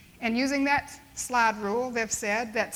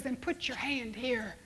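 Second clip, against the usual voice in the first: tender invitation; 5 dB quieter, slower than usual. Acted. Jesus invites the listener.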